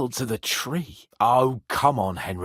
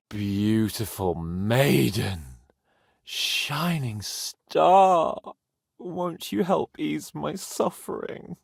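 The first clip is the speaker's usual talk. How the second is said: mock courtly plea; much slower than usual.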